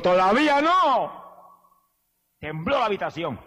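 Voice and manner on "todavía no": slow, much higher and louder booming reply; voice of God. Retold or imitated. God answering the man on the floor, slow and solemn. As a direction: intone it as a solemn divine answer. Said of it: "Me dijo".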